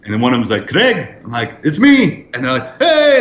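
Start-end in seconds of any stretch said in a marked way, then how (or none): 0.7-1.1 high call of recognition; delighted greeting. Retold or imitated. Diner spotting his guest in the corner, delighted greeting. 1.6-2.2 high, loud, gleeful reply; playfully triumphant arrival call; excited announcement. Retold or imitated. Guest in a suit answering the huddled diners, excited announcement. 2.8-3.2 high, loud welcoming whoop; group cheer. Retold or imitated. Diners welcoming their guest to the feast, joyful cheer.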